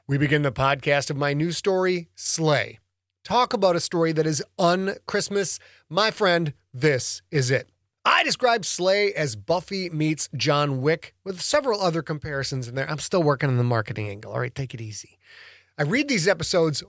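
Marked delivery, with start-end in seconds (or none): none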